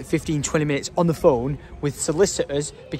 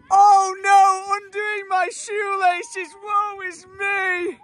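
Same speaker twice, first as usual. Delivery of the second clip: mock dramatic sigh; 13 semitones higher, much slower than usual. Self-pitying while undoing shoelaces.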